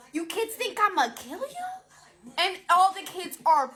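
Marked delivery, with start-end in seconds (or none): 0.1-2.3 slow menacing teacher. Retold or imitated. Teacher confronting the class.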